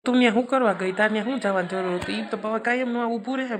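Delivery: husband scolding his wife for going there; angry scolding. Acted. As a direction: snap at her for going there.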